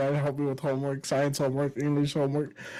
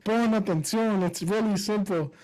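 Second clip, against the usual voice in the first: put-on higher, drawn-out words as if for a dim child; slow, condescending dad; 5 semitones higher than usual. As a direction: imitate a dad patronizingly spelling it out. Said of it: "starts reading it slow to me like".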